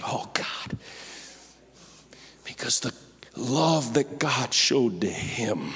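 low, slow, near-whispered reverence; tender, deeply moved and unhurried; hushed, moved preaching. Real, not acted. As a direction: let it sink to an awed whisper.

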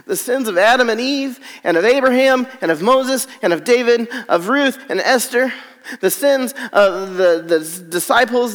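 preacher piling up the sins of mankind; rising fervour. Real, not acted. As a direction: build the list with force. Building list of sins.

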